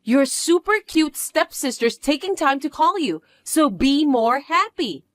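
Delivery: self-adoring little sister; smug stepsister. Acted. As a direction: coax her to be happy, pouting. Stepsister demands praise.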